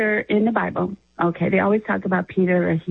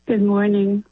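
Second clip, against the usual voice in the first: laughing. Real, not acted. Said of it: "You got a chuckle out of that".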